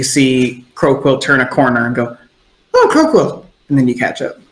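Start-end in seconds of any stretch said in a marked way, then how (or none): 2.7-3.5 calling out. Acted. Spotting Croquill, calling out.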